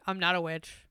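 low, soft mock denial; imagined defendant's denial. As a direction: quietly act out the accused's plea. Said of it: "just her going".

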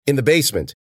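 broken phone line. A narrator's reading. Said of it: "his voice degraded into a digital beep".

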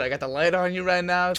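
stern traffic cop, hammed up. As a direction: play the cop shining a flashlight. Friend plays traffic cop.

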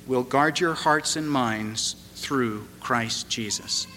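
slow, measured reading of the verse; scripture reading. Acted. Preacher reads Paul's verse to congregation, slow and reverent.

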